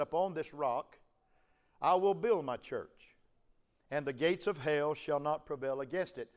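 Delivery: flat, even, unemotional reading; no emotion. Shown as a demonstration. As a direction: read it plainly, no feeling. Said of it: "I say that with no emotion".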